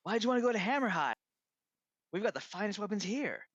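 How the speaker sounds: high, fast, squeaky apprentice pitch; a clumsy, wooden sales pitch; unconvincing sales pitch. Acted. Apprentice drone pleads with customers, high squeaky pitch. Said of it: "least convincing sales pitch".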